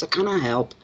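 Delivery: imitating Glasgow accent. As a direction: mimic the Glasgow friend. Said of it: "in there as well with all these words".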